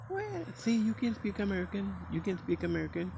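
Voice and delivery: mock coworkers cheering. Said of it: "They say".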